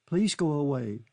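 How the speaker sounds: a sobbing plea for him to leave. Acted. Kitty sobbing at Charlie to go away. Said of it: "she sobbed".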